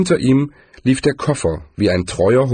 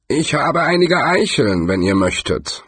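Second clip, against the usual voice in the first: a lightly voiced friendly tree, a touch higher; 5 semitones higher than usual. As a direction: offer kindly as a gentle tree. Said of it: "sagte der Baum freundlich".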